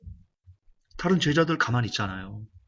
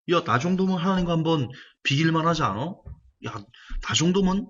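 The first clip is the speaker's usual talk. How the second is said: boastful Satan; 3 semitones higher than usual. Acted. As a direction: play Satan swelling with pride. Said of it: "이게 사탄의 마음이었습니다".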